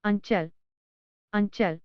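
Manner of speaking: अंचल with the nasal as ञ before च; careful demo word. Shown as a demonstration. Teacher models अंचल for learners, careful demo. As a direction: model अंचल clearly twice. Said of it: "जैसे".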